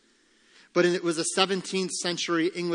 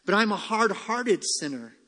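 higher-pitched, insistent objection; protesting sinner; 5 semitones higher than usual. Acted. Preacher voicing the hard-hearted listener's objection, protesting. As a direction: lift the voice and insist. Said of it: "say you".

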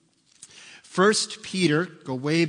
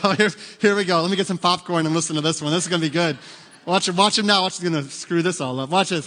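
gleeful mocking bystander; 4 dB louder than usual. Disciples mocking Peter.

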